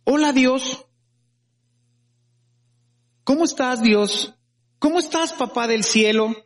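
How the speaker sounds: a relaxed, chatty hello to God; casual friendly prayer. Shown as a demonstration. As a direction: greet God like your dad on the phone. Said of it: "y hablarle a Dios así". (saludo casual y cariñoso a Dios)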